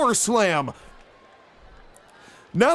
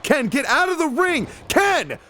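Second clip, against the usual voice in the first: yelling at wrestler; 3 semitones higher than usual. Real, not acted. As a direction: shout him out of the ring.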